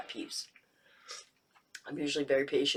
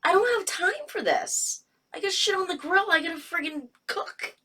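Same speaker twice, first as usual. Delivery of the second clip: frazzled and stressed; 12 semitones higher than usual. Retold or imitated. Retelling busy night stress.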